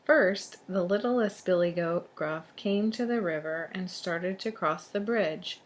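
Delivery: put-on lively storybook narration to children; storyteller reading aloud; story read-aloud. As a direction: read it out clearly for young listeners. Reads a tale to children.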